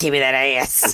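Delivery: put-on, deep, low demon voice laid on thick. Imagining Krampus answering Santa in a two-person improv show, in a Krampus voice. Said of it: "That's basically her in a Krampus voice".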